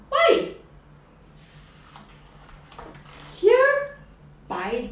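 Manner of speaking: mouse voice, squeaky high on why, here; scheming mouse. Acted. Mouse spooking the owl, squeaky and sly. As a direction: lay the trap, slowing on the punchline.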